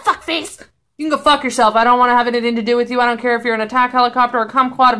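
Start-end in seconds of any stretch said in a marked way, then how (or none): 0.0-0.6 high-pitched hammed-up indignation; mock outrage. Someone getting up in the speaker's face, mock outraged. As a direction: imitate an outraged rant, spiralling into babble. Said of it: "go up in my face".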